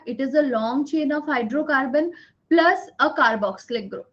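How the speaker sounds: very slow, every word spaced for note-taking; teacher dictating notes word by word; slow dictation. Shown as a demonstration. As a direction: dictate it slowly so they can write. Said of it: "slow dictation teaching".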